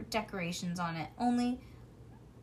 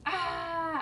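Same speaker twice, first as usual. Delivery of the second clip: high mock scream; playful scream; 7 semitones higher than usual. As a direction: shriek while running around. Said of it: "I kept screaming".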